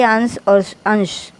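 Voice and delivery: अंश said first with a dental s, then अंश with a palatal sh; sibilant contrast demo. Shown as a demonstration. Teacher to students, contrasting the two sibilants in अंश and अंश. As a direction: set the dental s of the first अंश against the sh of the second. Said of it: "यहाँ पर स जो है वह दंत से उच्चारित किया जाता है, जबकि श".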